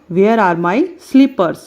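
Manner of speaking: slow, clear teacher model; model sentence. Shown as a demonstration. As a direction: spell it out slowly for the class. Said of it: "सबसे पहले हम क्या देखते हैं". (धीमे, साफ़ उच्चारण में)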